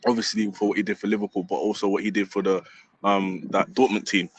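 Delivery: close to tears. Real, not acted. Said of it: "if you need to cry, you cry".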